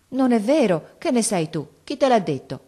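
a touch of embarrassed denial, voice up; mild mock fluster from the mother. Mother blushing, denying she has no money, mildly flustered.

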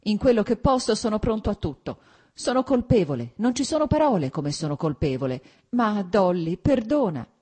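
loud, high-pitched desperate imploring; sobbing plea. A narrator's reading. Husband imploring wife for the children, desperately tearful. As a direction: beg forgiveness with acted tearful urgency. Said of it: "pronunziò ormai singhiozzando".

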